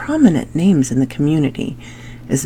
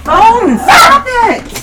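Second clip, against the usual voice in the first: loud, high scolding of a dog; 8 dB louder than usual. Real, not acted. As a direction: tell the dog off, sharp and loud.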